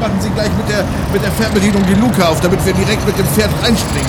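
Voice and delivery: high, loud pompous captain; Captain Dirk voice. Acted. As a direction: play the bold space captain.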